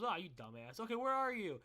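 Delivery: lightly acted annoyed parent; exasperated mom. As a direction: scold like a fed-up mother. Retold exasperated mom on phone.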